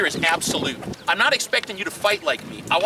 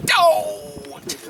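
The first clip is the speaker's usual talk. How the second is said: laughing protest; 9 semitones higher, 3 dB louder than usual. Real, not acted. Laughing protest after story.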